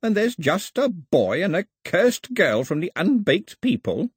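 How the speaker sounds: wailing. Acted. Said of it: "he wailed".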